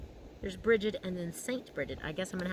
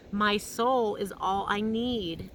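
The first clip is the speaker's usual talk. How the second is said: slow heartfelt affirmation; 4 dB louder, slower than usual. Shown as a demonstration. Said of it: "that feels good to say".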